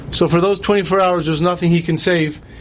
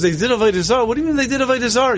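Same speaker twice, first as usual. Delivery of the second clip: retold indignant questioning, rising and speeding up; incredulous challenge; 3 semitones higher, faster than usual. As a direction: throw it back as a disbelieving question. Rachel challenges Hashem in retold argument.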